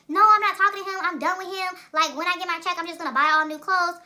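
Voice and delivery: put-on high, loud, defiant girlfriend voice; squeaky, insistent retelling of her refusal; retold fed-up friend.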